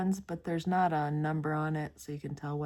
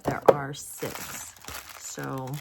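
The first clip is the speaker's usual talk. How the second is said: yawning; 3 semitones lower, 4 dB louder, much slower than usual. Real, not acted. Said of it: "then I start yawning".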